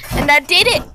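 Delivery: bursts out loud with pride; real proud exclaim; proud excitement. Real, not acted. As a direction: announce it like a small triumph. Proud of her new braid.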